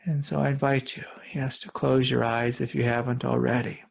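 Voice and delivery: calm guided meditation with long pauses; unhurried meditation guide, spacious pauses. Real, not acted. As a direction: lead listeners gently inward, leaving long silences between phrases.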